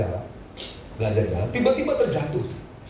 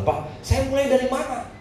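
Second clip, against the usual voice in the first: high-pitched helpless plea, played for laughs; mock helplessness; 5 semitones higher than usual. Preacher retells asking his pastor where to start, mock helplessness. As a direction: act out a clueless question.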